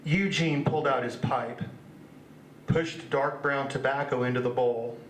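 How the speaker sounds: measured reading with pauses between phrases; literary reading. Acted. Author reading family folklore piece to an audience, measured recital. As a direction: read it out deliberately, phrase by phrase. Reads next piece from his book.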